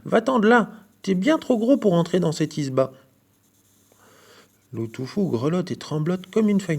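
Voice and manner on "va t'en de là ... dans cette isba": louder, higher chase-off cry; shouting. A narrator's reading. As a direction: shout the wolf away.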